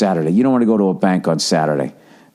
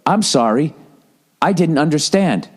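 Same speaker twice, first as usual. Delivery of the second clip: polite robot phone voice; 5 semitones higher than usual. Retold or imitated. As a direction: say it like an automated system. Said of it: "the thing all of a sudden just goes".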